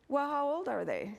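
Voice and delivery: put-on high, puzzled elderly mother voice; voicing confused mother. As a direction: pitch way up, lightly questioning.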